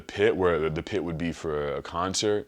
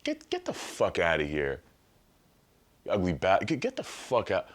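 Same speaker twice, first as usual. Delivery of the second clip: mock Michelle insult; 3 dB quieter than usual. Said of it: "I mean, Michelle Obama".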